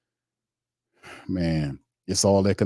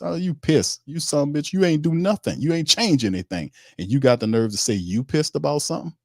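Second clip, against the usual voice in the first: higher-pitched outraged disbelief; indignant rant; 7 semitones higher than usual. Real, not acted. Fan host ranting at the coach, indignant and higher. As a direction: call him out, voice jumping up. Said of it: "that's really insulting".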